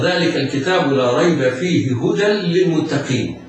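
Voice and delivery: melodic recitation of the whole verse; Quran recitation. Shown as a demonstration. Teacher reciting the example verse, melodic. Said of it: "ومثل".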